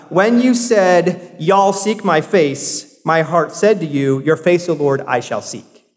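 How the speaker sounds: slow Southern US reading; Southern version. Shown as a demonstration. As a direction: read it slowly with a Southern US twang. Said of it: "the Southern Demo version".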